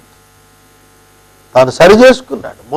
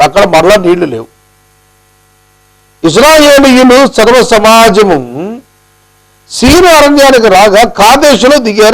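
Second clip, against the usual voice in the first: normal talking voice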